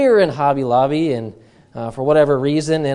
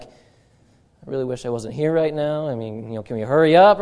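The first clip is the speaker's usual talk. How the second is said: reluctant shopper; 3 semitones lower than usual. Retold or imitated. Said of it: "I always try to have this face on me".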